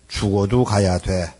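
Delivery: lightly voiced determined mother; resolute mother.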